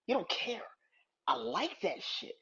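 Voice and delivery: unvoiced whisper, slowing down. Real, not acted. Fan admiring Cena's attitude, whispering. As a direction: savor it in a whisper.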